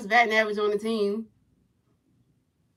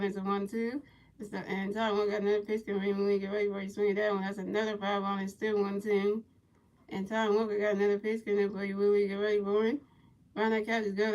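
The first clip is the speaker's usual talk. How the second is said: play-by-play commentary; 6 dB quieter than usual. Pretend. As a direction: call each pitch softly in a level voice. Returns to play-by-play.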